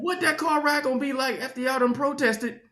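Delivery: comic outrage at full volume; mock outraged shout. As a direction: yell it like a preacher in full cry. Comic rant about protest partner.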